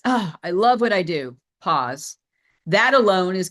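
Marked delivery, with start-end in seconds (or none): 0.0-1.4 passionate intro. Shown as a demonstration. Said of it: "it would look something like this".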